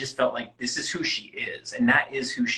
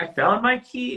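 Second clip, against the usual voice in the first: high-pitched, louder mock excitement; mock corny skit; 11 semitones higher, 6 dB louder than usual. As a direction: send up a cheesy audition performer. Mocking a corny audition skit.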